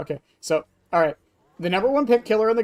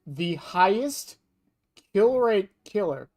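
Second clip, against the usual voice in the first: slow build with long pauses; suspenseful reveal; slower than usual. Real, not acted. Streamer revealing the top killer to chat, slow and suspenseful. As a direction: draw it out phrase by phrase, pausing before the name.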